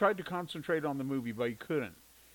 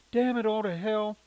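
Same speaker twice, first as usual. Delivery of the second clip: higher, louder irritated outburst; annoyed curse; 8 semitones higher, 7 dB louder than usual. A narrator's reading. Mother cursing the ringing phone during her movie. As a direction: spit out the curse in exasperation.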